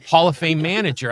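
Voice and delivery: imitating his sister. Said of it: "Yeah, I called Earl Weaver".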